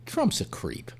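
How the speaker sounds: "Trump's a creep" breathed out softly; whispered aside. Real, not acted. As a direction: drop to a near whisper. Blunt aside after "let's be honest.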